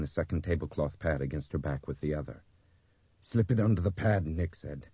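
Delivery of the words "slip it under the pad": panting while giving orders; breathless, strained command; out of breath. A narrator's reading. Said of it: "He was panting".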